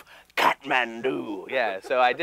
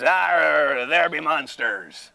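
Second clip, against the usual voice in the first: pirate voice; much slower than usual. Shown as a demonstration. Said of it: "I would just".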